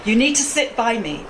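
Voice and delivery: mildly stern imitated father. Father calling daughter over to sit by him, mildly stern. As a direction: give a measured summons, as a stern father would. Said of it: "in a very stern voice".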